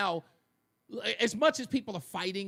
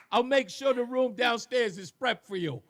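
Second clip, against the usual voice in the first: imitating Carmine; 5 semitones higher, 4 dB louder than usual. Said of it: "Carmine doesn't sound, well, he kinda sounds like that".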